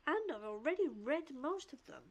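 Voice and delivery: measured read-aloud of a character's lines; lightly performed storybook-style read; reading dialogue aloud. Acted. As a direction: read it out with careful, lightly acted phrasing. Reads game character's dialogue aloud.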